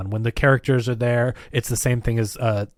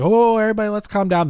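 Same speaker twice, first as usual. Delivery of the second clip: high, loud call to calm everyone; mock loud plea to settle down; calming the crowd; 9 semitones higher, 4 dB louder than usual. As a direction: raise your voice over a panicked group. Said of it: "Joel's like".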